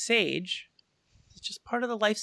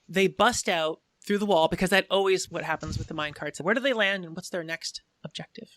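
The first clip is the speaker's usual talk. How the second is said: ordinary talk, nothing marked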